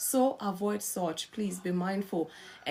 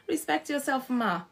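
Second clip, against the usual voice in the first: raised pitch, telling off a wife; higher-pitched admonishment; 3 semitones higher than usual. Acted. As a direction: admonish her on a higher note. Same admonishment turned on the wife.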